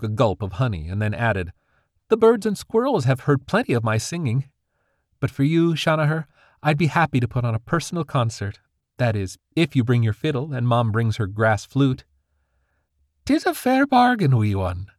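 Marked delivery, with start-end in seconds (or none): 2.1-12.1 put-on higher, cheerful girl's voice; young sprite girl. Granddaughter bargains with her grandfather, girlish and higher. Dandy's voice. 13.3-14.9 put-on higher, chuckling old fairy with an Irish lilt; jolly grandfather. Grandfather accepts the bargain, chuckling and lilting. Kale's voice.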